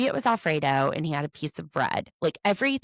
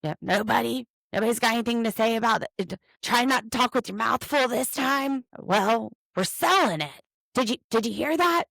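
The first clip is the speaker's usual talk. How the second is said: put-on higher, chummy dad voice coaxing silent kids; a lightly hammed-up Cody teasing the kids; mock Cody; 4 semitones higher than usual. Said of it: "Cody has an important announcement".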